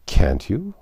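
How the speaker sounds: a touch of pity. Acted. Queen pitying Alice's disbelief, gently pitying. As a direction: pity her doubt. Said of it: "in a pitying tone".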